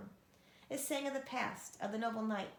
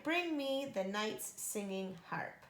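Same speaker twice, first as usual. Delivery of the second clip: giant command; slower than usual. Acted. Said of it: "he cried".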